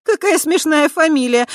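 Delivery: high, loud singsong teasing; mock the boy's name, loudly amused; teasing snort. Tai loudly teasing the boy by his surname. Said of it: "хмыкнула Тай".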